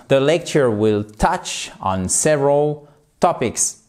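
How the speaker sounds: several stressed on the first syllable; SEV-eral, not sev-ER-al; careful teacher model sentence; stressed word. Shown as a demonstration. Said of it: "je dis pas several, mais several".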